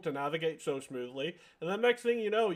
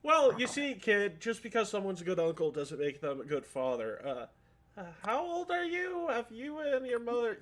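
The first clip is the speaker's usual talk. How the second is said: Matt explaining; 6 semitones higher than usual. Retold or imitated. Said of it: "Matt explaining".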